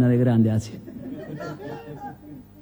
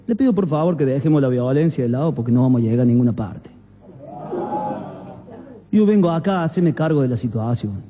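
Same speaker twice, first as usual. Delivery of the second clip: calm and unruffled; 5 semitones lower than usual. Acted. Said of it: "sin perder la calma".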